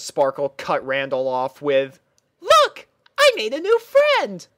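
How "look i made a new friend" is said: very high, loud excited pony voice; excited princess. Acted. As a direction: show off the new friend, pitched way up. Twilight excited to show friend.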